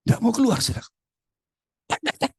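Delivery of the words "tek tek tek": short vocal door taps; knock-knock noise made by mouth; imitated knocking. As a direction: mimic knocking on a door once more. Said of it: "saya pintu, pintunya".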